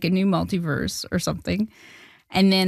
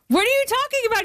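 much higher, incredulous squeal; can't believe what she's hearing; stunned disbelief; faster than usual. Retold or imitated. Retelling the agents' call, a high incredulous squeal. Agents say Sandler saw her film.

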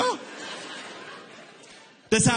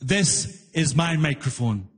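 slow deadpan booth guy; 6 semitones lower, slower than usual. Retold or imitated. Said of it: "leans into his little microphone".

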